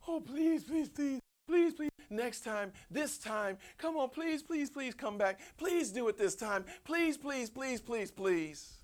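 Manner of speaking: high, pleading mock grovel; mock begging. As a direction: beg like a desperate pushover. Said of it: "grovels and begs".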